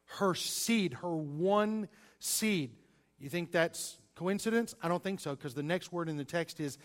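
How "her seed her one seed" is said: "one" slow and weighted, singular; stress on one. Shown as a demonstration. Preacher pointing out the single seed to the congregation, stressed. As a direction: lean on "one", drawing it out.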